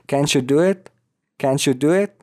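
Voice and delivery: "it" with a short vowel, "Can't you" as "canchu"; rising "Can't you do it" with clipped "it". Shown as a demonstration. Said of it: "با ای کوتاه باید تلفظش کنیم". («it» با ای کوتاه)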